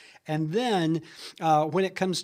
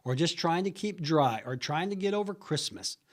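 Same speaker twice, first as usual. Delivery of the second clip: light snarky small talk. Shown as a demonstration. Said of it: "some snarky remark".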